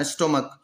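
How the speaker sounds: स्टोमक ending in a hard k; स्टोमक said with k, not ch; hard k pronunciation. Shown as a demonstration. Teacher correcting students who say stomach with ch. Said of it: "स्टोमच नहीं पढ़ना".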